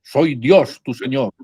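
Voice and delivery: a hint of a booming divine voice; gently hammed-up God calling down from the sky. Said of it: "se abren así los cielos y se dice".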